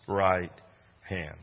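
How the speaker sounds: loud, ringing promise; fervent proclamation. Real, not acted. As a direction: declare each line with force. Fervent quoting of God's promise.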